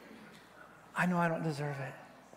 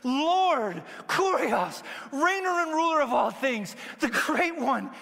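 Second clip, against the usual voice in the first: high, loud cry of adoration; impassioned, raised acclaim; desperate worship; 6 semitones higher, 4 dB louder, slower than usual. Retold or imitated. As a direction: call out as if falling at his feet. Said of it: "just fell on him, saying".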